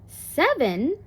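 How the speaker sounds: lightly acted surprise with a rising end; surprised echo. A narrator's reading. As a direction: repeat it back in mild disbelief. Grandmother echoes the child's surprising answer.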